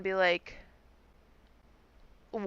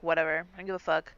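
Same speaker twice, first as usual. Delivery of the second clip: low, offhand brush-off of "fuck"; dismissive shrug; 3 semitones lower, much faster than usual. Retold or imitated. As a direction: toss off "I don't give a fuck" like it's nothing. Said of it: "so she's like".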